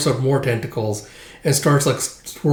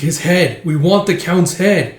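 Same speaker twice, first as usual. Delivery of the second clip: raised, drawn-out ghostly demand; clamouring spirits; 5 semitones higher, 4 dB louder than usual. Acted. Specters rising out of the ground, clamouring demand. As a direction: chant it like hungry specters. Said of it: "all these specters and spirits".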